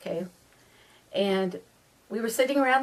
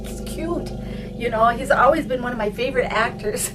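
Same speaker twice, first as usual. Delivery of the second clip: flustered backpedaling; 3 semitones higher, 4 dB louder than usual. Retold or imitated. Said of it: "I started going".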